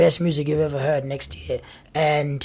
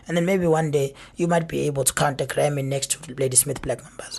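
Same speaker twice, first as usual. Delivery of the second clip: whispered aside; 3 semitones lower, 6 dB quieter than usual. Real, not acted.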